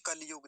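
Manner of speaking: कलयुग as "kal-yug"; कलयुग squeezed into two syllables; common mispronunciation. Shown as a demonstration. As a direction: drop the i after ल in कलयुग. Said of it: "कुछ लोग क्या बोलते हैं".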